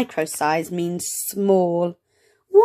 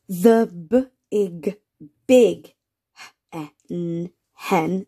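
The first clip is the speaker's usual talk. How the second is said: slow sounding out; 2 semitones lower, much slower than usual. Shown as a demonstration. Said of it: "Shall we say it together".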